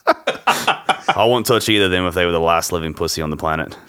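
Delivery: put-on Aussie accent drifting British; botched Australian, comes out British; attempted Australian with a British slip; Australian slipping into British. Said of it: "I went British there".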